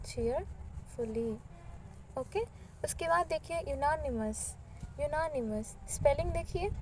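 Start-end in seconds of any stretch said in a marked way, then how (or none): 0.1-1.3 चीयरफुली said slowly and softer, every syllable stretched; slow softer repeat. Shown as a demonstration. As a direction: drag out चीयरफुली gently for students to copy. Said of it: "तो हम क्या लिखते?". (चीयरफुली धीरे और हल्के से, हर अक्षर खींचकर)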